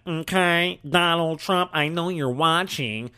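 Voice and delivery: slightly hammed-up politician impression, drawn-out ending; lightly mock a politician addressing a rival; mocking, deliberate, stretched-out delivery; Kamala Harris. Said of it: "I'm making fun of Kamala Harris".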